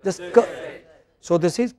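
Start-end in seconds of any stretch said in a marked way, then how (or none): 0.3-0.4 "ka" as a brief, weak kuh; reduced vowel. Shown as a demonstration. Teacher repeats the right syllable for class, reduced vowel. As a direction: say "ka" as barely more than a k. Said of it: "The first syllable is hardly heard".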